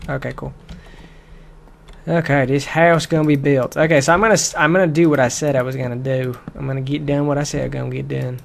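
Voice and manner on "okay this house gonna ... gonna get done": put-on southern US accent; amateur southern accent, lively and emphatic. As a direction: slip into a playful southern accent. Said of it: "keep going to this southern accent".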